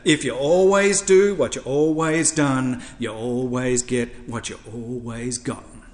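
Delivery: imitated African-American woman's accent, starting loud and settling down; African-American church elder's saying, lightly imitated; Archdeacon Elaine. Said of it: "see if I can do her accent".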